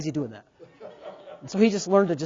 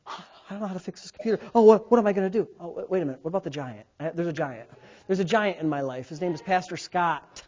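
mock freaking out; 3 semitones lower, 4 dB quieter, faster than usual. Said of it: "freaking out about".

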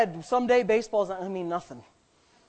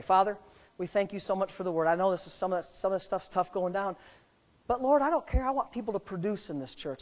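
prayer; 3 semitones lower, 4 dB quieter than usual. Real, not acted. Leads a closing prayer.

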